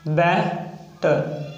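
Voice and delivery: बेटर stretched very slowly, each sound clear; slow demo of बेटर. Shown as a demonstration. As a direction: drag out बेटर for the class. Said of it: "तो बै आएगा वो वल filter".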